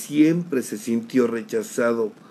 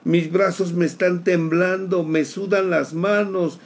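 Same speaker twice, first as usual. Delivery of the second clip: higher, rising panicked pleading; reliving panic; 6 semitones higher than usual. Retold or imitated. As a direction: climb in fear toward tears. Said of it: "y me solté a llorar".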